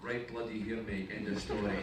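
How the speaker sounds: a touch of Scottish brogue; lightly voiced Scottish punchline, cocky; Scottish accent. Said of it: "'cause I don't normally speak with a Scottish accent".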